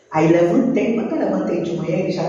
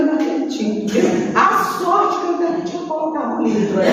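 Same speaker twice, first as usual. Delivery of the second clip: relieved laugh; 7 semitones higher than usual. Retold or imitated.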